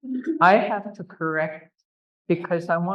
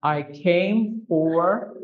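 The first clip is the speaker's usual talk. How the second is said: slow gloss; much slower than usual. Shown as a demonstration. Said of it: "double translations".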